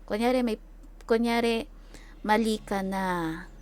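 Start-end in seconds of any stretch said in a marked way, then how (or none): 2.2-3.5 mahinahon, mababa, mabagal na \"mali ka na\"; calm low voice. Shown as a demonstration. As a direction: kalmadong pagsasabi ng pagkakamali, dahan-dahan. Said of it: "yung ganito lang". (mahinahon at mabagal na pagsasalita)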